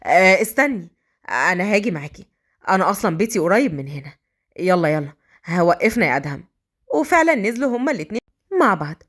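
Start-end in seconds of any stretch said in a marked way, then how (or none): 0.0-6.4 low male character voice, hurried intent; eager to tag along, in a lower voice; Mazen speaking hastily. Acted. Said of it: "فقال مازن بسرعة".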